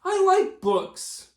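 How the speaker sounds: high puppet character voice; squeaky-free high puppet voice. Acted. A puppet character Fred speaks.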